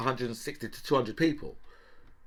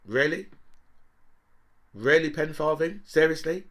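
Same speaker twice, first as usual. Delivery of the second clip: incredulous disbelief; 5 semitones higher, 3 dB louder than usual. Real, not acted. Incredulous at Pen Farthing's choice.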